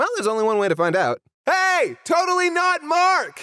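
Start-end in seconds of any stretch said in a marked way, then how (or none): 1.5-3.4 long, very high, drawn-out yell. Calling out to a guest all the way across the pond: shouting. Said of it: "why are you shouting?".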